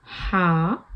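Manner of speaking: हा breathed from the middle of the throat. Shown as a demonstration. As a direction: push हा out from mid-throat. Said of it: "और आइन pronounce होता है".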